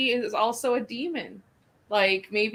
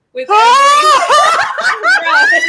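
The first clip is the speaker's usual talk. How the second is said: laughing; 16 dB louder, much slower than usual. Real, not acted. Laughing while picturing the clown.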